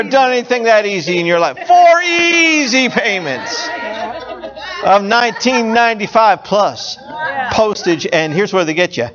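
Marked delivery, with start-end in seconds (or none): 1.7-8.1 home shopping host. Retold or imitated. Continues infomercial pitch.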